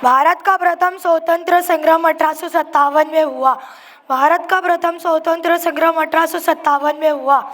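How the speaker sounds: monotone, sing-song cramming recitation; rote memorising. Acted. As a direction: drone it like a student learning by heart. Student cramming history by rote.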